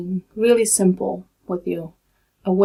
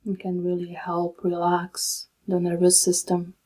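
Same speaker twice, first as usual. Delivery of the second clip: calm, unhurried meditation guide with long pauses; soothing, even delivery in short, spaced-out phrases; guided meditation; 3 dB quieter than usual. Real, not acted. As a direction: guide them gently into stillness, leaving long silences.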